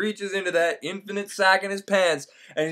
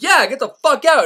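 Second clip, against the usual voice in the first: mock agreeing; 8 semitones higher, 5 dB louder than usual. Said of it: "And Martin's like".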